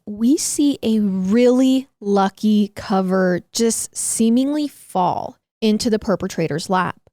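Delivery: measured, deliberate storytelling read; weighty scripted intro with stressed key words; true-crime narration. A narrator's reading. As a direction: draw listeners into a cold case.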